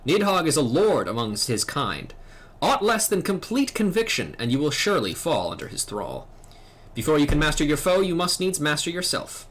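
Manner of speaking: a measured, grave mentor giving a warning; lightly voiced stern elder knight; solemn old knight. Old knight warning the young dragoon, grave and measured. Voicing the quest-giver's lines.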